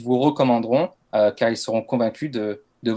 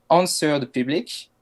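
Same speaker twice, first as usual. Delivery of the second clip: English name said with a strong French accent; 3 semitones higher, slower than usual. Real, not acted. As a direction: read the English name the French way, self-mockingly. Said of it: "mon accent anglais est magnifique". (anglais avec un fort accent français)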